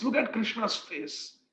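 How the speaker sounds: Krishna's said slow and gently. Retold or imitated. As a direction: ease her worry, soft and slow. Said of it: "he speaks".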